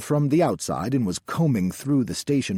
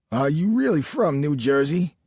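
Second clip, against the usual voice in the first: higher, louder country lawman; Southern sheriff; 6 semitones higher, 5 dB louder than usual. A narrator's reading. Sheriff looking back suddenly at the driver, Southern sheriff voice. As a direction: ask it as a doubtful Southern sheriff.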